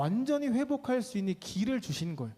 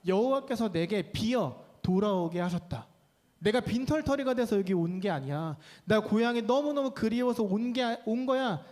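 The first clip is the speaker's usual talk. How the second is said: Naomi's bold declaration; 3 semitones higher than usual. Acted. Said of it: "이렇게 이야기를 해요".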